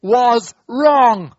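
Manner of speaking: big, drawn-out call-along; say-it-with-me demo. Shown as a demonstration. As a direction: lead a crowd in chanting "I was wrong". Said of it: "Say it with me, please".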